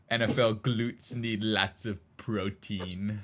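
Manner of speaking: slow, drawn-out announcer read; slow mock ad announcer line. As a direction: read it like the ad voiceover, slowly. Quoting the ad announcer.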